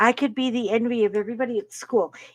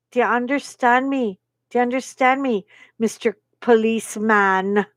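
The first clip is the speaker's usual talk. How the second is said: stern mother. Retold or imitated. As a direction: put a husband on notice, deliberately. Mother scolding her policeman husband.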